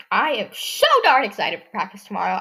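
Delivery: mock-excited about practice tomorrow; sarcastic. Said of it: "I am being purely sarcastic".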